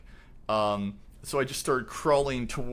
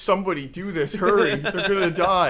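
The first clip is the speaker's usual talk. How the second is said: loud, hurried cry for help; urgent plea; 6 semitones higher, 8 dB louder than usual. Retold or imitated. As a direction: urge them to hurry, loudly.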